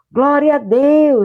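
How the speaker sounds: fervent, high, loud preaching shout. Retelling how a preaching friend in russia shouted: imitating someone shouting. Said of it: "Então meu amigo gritou".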